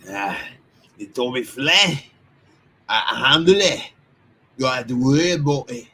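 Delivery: playful put-on Irish accent. Shown as a demonstration. Streamer sipping naughty water, in a mock Irish accent. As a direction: do a little Irish brogue. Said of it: "That's my little Irish accent".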